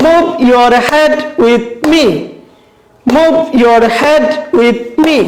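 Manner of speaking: "move", "head", "side", "me" hit as slow beats; slow, spaced words, punching "move", "head", "side"; stressed rhyme words. Shown as a demonstration. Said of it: "যে শব্দগুলোতে শুধুমাত্র আমরা stress রয়েছে".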